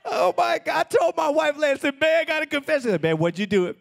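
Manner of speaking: high, excited storytelling voice; animated high confession story; excited retelling. Retold or imitated.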